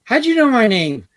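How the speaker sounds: surprised guy. Retold or imitated. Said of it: "the guy goes".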